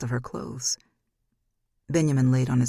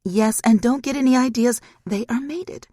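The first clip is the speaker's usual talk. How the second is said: sharp warning; 9 semitones higher, 7 dB louder than usual. Acted. Daughter warns mother.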